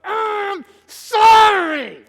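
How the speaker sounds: loud, slow, through gritted teeth; grudging sorry. Retold or imitated. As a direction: force the apology out sulkily. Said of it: "grit his teeth and go".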